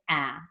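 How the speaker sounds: "ah" said open and short, like the a in apple; short a sound. Shown as a demonstration. Teacher showing the class the short A, a clear "ah". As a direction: give the pure short "ah" of apple. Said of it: "it's going to say".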